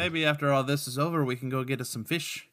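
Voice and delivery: lightly put-on Irish brogue; chatty mock-Irish accent; the speaker's Irish accent. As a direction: invite him along in amateur Irish. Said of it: "Speaking of bad accents".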